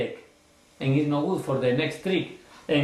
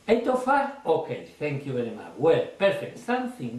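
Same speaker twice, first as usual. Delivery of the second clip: restrained reply; 4 semitones lower than usual. Shown as a demonstration. Magician to spectator, restrained and polite. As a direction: keep it low-key and quick. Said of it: "you can say".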